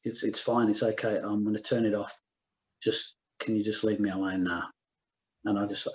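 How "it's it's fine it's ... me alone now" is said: calm. Retold or imitated. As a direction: calmly give in, understated. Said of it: "he just said really calmly".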